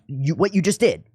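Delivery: eager teacher catching the moment; excited pointing. Retold or imitated. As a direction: point at him and call it out, building. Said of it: "I pointed at him".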